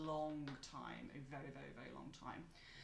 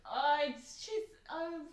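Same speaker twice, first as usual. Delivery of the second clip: vague librarian; 10 semitones higher, 7 dB louder, slower than usual. Acted. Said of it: "looks up and goes".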